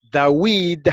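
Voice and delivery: "David" drawn out slowly as da-WEED; slow demonstration of "David" with w for v; w pronunciation. Shown as a demonstration. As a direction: say "David" with a clear French oui glide. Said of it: "David se pronuncia David".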